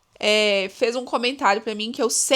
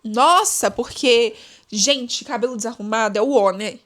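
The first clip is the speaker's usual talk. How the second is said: envious person; 2 semitones higher, 3 dB louder than usual. Retold or imitated. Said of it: "a pessoa invejosa falando".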